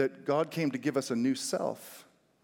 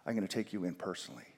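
1 lightly voiced singer; 6 semitones lower, 6 dB quieter than usual. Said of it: "a singer saying".

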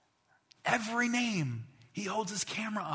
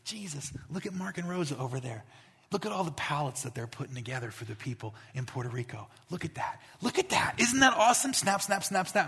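proud dad voice. Pretend. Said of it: "and he goes".

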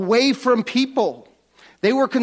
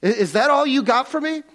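mock disappointment; 4 semitones higher than usual. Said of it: "leper's mock complaint".

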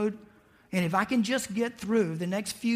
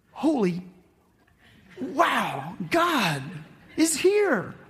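gasping, rising higher and louder to a cry of wonder; awed excitement; 7 semitones higher, 5 dB louder, much slower than usual. Retold or imitated. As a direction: blurt it out in amazement as the awe builds.

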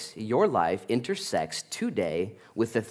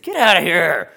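louder, higher shout of get out; angry dismissal; 6 semitones higher, 7 dB louder than usual. Retold or imitated. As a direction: throw him out with a yell. Synagogue leader throws Paul out.

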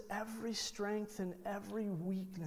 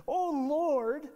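mock reverent cry; 6 semitones higher, 9 dB louder than usual. Moses addressing God.

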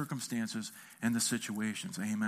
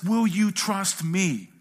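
slow, louder, drawn-out plea "Will you trust me?"; gentle voice of Jesus; 3 semitones higher, 5 dB louder, slower than usual. Acted. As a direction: ask it slowly like Jesus inviting you. Jesus asks the believer.

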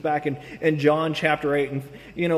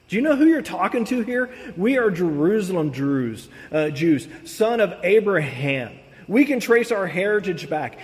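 mock arrogant boasting. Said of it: "What they're saying is this".

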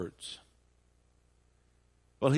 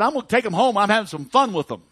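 put-on high, loud boy bragging of his plans; young boy; 10 semitones higher, 12 dB louder than usual. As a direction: pipe up eagerly, like a lad. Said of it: "And the boy said".

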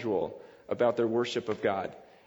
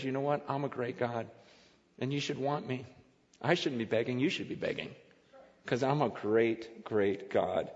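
soft assured God voice; 4 semitones lower, 6 dB quieter than usual. Pretend. Voicing God softly.

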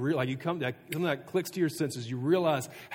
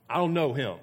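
sworn denial; 4 dB louder than usual. Acted. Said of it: "just start swearing".

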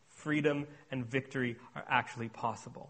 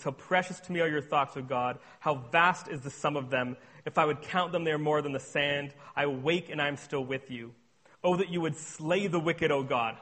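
scripture reading. Acted. Reads Psalm 139 aloud.

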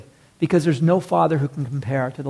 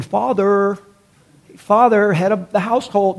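stiff formal address; 3 semitones higher than usual. Retold or imitated. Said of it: "He's not saying".

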